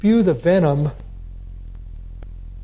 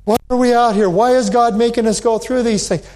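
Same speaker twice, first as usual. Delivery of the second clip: higher-pitched imitation of grumbling; mock murmuring; 4 semitones higher, faster than usual. Israelites coming back to Moses in the desert, mock complaining. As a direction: complain like the restless Israelites, lightly acted. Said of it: "They were murmuring".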